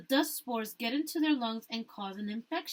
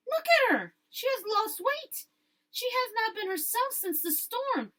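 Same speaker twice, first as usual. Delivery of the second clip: put-on worried older woman; 12 semitones higher, 4 dB louder than usual. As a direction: sound worried about her, lightly voiced. Hortensia worrying aloud about Mama.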